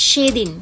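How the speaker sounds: সেদিন with a crisp s; teacher models the correct s; correct dental s. Shown as a demonstration. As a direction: clean s at the gum line. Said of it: "একদম ঠিকঠাক উচ্চারণ".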